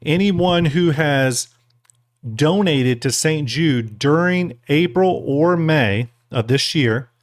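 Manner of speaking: slow, careful words around a bean; mouth full. Real, not acted. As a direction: talk through a mouthful. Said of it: "I got this bean in my mouth".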